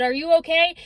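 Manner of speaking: mild mock yell. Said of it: "he yelled at me again".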